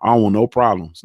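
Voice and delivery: playing the scared fighter backing off; lightly voiced panicked fighter; imitating boxer. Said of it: "quickly said".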